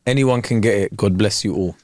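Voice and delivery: low-pitched imitation of a boxer's menace, dropping further on the blessing; hatred turning to blessing. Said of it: "that much hatred and love".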